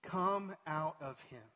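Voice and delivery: slow, measured command; stern. Acted. Preacher voicing Jesus commanding an impure spirit, slow and stern. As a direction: order it out firmly, word by word. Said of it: "said Jesus sternly".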